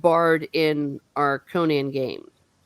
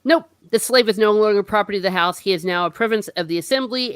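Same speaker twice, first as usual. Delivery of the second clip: brisk dismissal; 3 semitones higher, 3 dB louder, faster than usual. Retold or imitated. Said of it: "But the Great One just goes".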